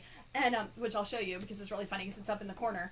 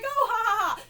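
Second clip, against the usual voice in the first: higher, louder forced ha ha ha; awkward fake laugh; 10 semitones higher, 8 dB louder than usual. Fan laughing awkwardly at the actor's joke, forced laugh. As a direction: laugh along nervously, a bit too much.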